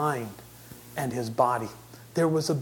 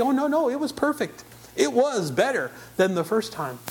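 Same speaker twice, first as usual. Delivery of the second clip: mock objection; 6 semitones higher than usual. Imagined experts object to him.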